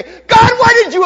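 high, loud mock whine at God with a laugh; mock complaint. Believers blaming God when bad things happen, hammed-up high whine. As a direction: play the indignant believer, hammed-up. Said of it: "we say".

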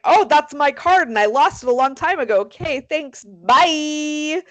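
imitated airy sign-off; breezy dismissal. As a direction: brush them off cheerily. Retold woman breezily dismissing the cops.

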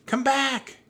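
high, loud pleading yell; shouting. A narrator's reading. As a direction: shout after him to return. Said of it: "Annie shouted".

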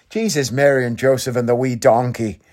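lightly attempted Irish accent; Irish accent impression. Repeating the catchphrase to get him right, Irish accent. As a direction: imitate an Irishman's accent, not too heavily. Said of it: "'cause he's Irish".

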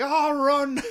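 high, loud imitation of a panicked cry; mock panicked shout. Podcaster mimics the cowardly king fleeing, mock panicked shout. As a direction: cry out like a hammed-up panicking leader.

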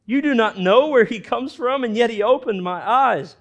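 high, loud, wide-eyed astonishment; the healed man marvelling at the Pharisees, in loud, high amazement; amazed. Retold or imitated. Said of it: "he's like".

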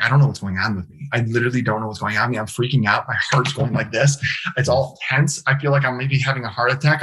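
rushed, mildly panicked retelling; retold panic. Man recounting his freak-out online, mildly panicked. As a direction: let the worries tumble out quickly.

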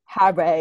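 "Harry" with the ending stretched to "ray"; mimicked odd pronunciation.

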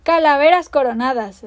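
loud imitated pirate bellow; mock pirate roar. Peter answers Hook in a loud mock pirate voice. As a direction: shout it as the fake captain. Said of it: "replicó la voz".

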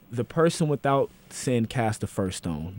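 slow, deliberate scripture reading; solemn scripture quote. Real, not acted. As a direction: quote the verse with weight.

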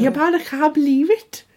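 mock Geordie accent, lively lilt; put-on Geordie. Friend showing how they talk, put-on Geordie. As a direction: try a jokey Geordie. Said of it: "Like, that's how they talk".

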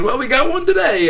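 very high, loud, emotional retelling; imitated tearful joy. Tearful doctor celebrating a miracle, high-pitched and overcome. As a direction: mimic the doctor choked up with joy. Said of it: "He starts crying".

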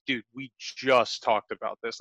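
slow, low, weary annoyance; retold exasperation. Coworker tired of repeating himself, mildly pissed off. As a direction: imitate a fed-up coworker, drawn out. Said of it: "he gets pissed off and he goes".

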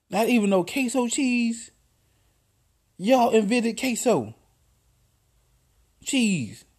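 playful exasperated roast, voice up high; mock outraged ribbing. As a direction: roast her in a high, incredulous voice. Ribbing friend about no cheese.

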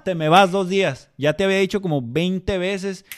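loud stern teacher, fed up; firm loud scolding. Retold or imitated. A teacher scolds the boy for the twentieth time, loud and firm. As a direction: lay down the limit at last. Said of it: "Te tienes que aprender a enojar bien".

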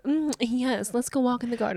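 softly voiced posh snob; a touch of a pompous aristocrat. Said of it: "I sound like the pompous asshole".

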